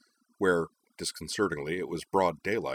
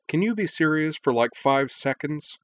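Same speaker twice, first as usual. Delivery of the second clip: demanding; 8 semitones higher, 4 dB louder than usual. Acted. Hikaru demanding Nal take it seriously, exasperated. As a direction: lean hard on each word in frustration. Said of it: "Hikaru demanded".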